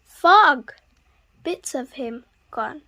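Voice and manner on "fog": surprised cry. A narrator's reading. Sudden fog, exclaimed.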